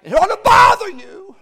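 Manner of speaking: shouted, high-pitched preacher's cry; fiery revival preaching; full-force preaching. Acted. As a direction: bring it up to a roaring pulpit shout.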